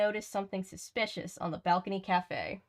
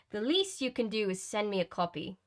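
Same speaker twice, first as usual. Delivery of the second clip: attempted upper-class British accent; badly faked proper British. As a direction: put on an amateur British girl's voice. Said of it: "all the English people are gonna hate me".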